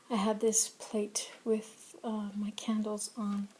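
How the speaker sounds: hoarse whisper after pneumonia; a weak, raspy, breathless voice. Real, not acted. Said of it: "please excuse my voice".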